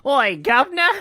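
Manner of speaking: loud, high, hammed-up Cockney; mock Cockney shout of a bad British accent; poor Cockney accent. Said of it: "trying to do a very poor accent".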